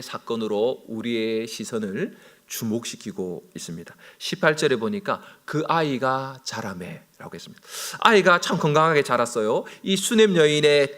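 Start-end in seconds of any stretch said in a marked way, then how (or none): 5.4-7.3 slow reading. Shown as a demonstration.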